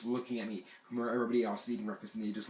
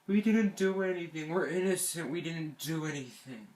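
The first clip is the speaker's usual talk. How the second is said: higher-pitched plea of innocence; mock innocent protest; 3 semitones higher than usual. Boys pleading innocence to the camper they tied in, mock innocent protest. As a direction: whine it higher, like boys caught out. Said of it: "They look at me like".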